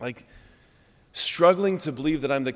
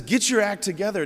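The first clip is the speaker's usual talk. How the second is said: higher, louder mock scolding; a hint of an exasperated Jesus; mock angry rebuke; 7 semitones higher, 4 dB louder than usual. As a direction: play the stern, angry judge briefly. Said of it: "looks at sinners with anger".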